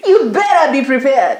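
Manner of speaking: high-pitched, playful outburst breaking into laughter; hammed-up exasperation. Podcaster warning listeners about the dating jungle, hammed-up exasperation.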